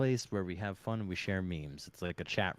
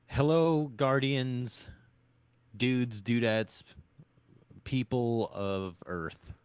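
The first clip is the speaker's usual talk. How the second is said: show opener; 2 semitones higher, 3 dB louder, slower than usual. Pretend. Hammed-up show greeting.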